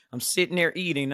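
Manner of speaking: emphatic repeat. Shown as a demonstration. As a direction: lean into it harder the second time. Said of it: "repeated louder for emphasis".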